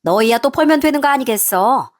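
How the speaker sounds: lightly voiced pushy mother-in-law; teściowa roszczeniowa.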